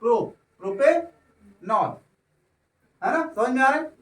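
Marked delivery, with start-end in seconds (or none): 0.6-2.0 प्रोपेनॉल spelled out slowly, syllable by syllable; slow teaching demo. Shown as a demonstration. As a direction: draw out प्रोपेनॉल slowly for the class. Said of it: "सीधे क्या बोल दिया?". (धीरे-धीरे, एक-एक हिस्सा बोलकर प्रोपेनॉल)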